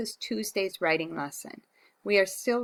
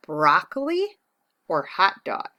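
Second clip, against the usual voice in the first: excited; 6 dB louder than usual. Real, not acted. Teacher presenting choice eagerly.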